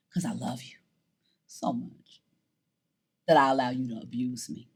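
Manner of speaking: very soft, low admission; hushed confession. Retold or imitated. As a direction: let it fade almost to a whisper. Hushed admission of painful love.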